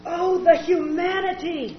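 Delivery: slow anguished cry, hammed-up; melodramatic lip-sync. The speaker mimicking the Hindenburg reporter, hammed-up cry. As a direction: wail it like the old broadcast. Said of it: "lip-syncs melodramatically".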